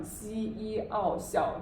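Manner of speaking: 西一奥校 drawn out slowly, ending on a falling fourth tone; slow sound build-up of 学校; slow blending. Shown as a demonstration. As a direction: stretch 西一奥校, drop hard on 校. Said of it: "and the fourth tone".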